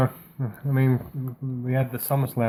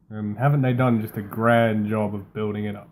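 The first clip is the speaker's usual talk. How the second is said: dry sarcastic praise; 2 semitones lower than usual. Real, not acted. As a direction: say it with mock enthusiasm. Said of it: "I'm saying it very sarcastically".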